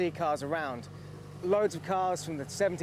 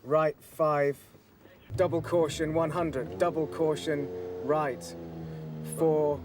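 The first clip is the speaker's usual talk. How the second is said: Shakespearean voice; slower than usual. Pretend. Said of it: "using my best Shakespearean voice".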